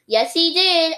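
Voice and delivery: high squeaky cheer; squeaked. A narrator's reading. Hamster backing up Daniel, high squeak. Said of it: "I squeaked".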